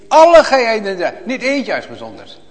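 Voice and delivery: high, loud cry that breaks into a laugh; fervent loud cry. Real, not acted. Preacher exclaiming to the congregation, loud and joyful. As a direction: burst it out, almost laughing with joy. Preacher repeats call to all.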